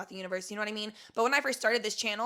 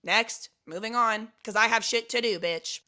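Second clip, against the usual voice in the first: loud, brisk dismissal; sassy so-what send-off; done caring; 6 dB louder than usual. Shown as a demonstration. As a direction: brush it off and move on, emphatically. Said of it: "you don't give a fuck anymore".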